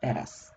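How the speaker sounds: "Teraz" low and soft, light t; easy teraz. Shown as a demonstration. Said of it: "to pronounce teraz".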